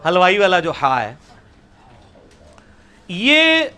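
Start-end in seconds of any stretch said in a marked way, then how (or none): 3.1-3.6 breathy ha pushed from mid-throat; throaty ha sound. Shown as a demonstration. Teacher demonstrating the Arabic ha to students, throaty. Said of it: "وسط حلق سے".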